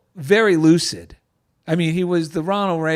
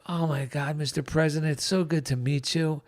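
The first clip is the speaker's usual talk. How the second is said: awed hush; 7 dB quieter than usual. Retold or imitated. Meeting the president, awestruck.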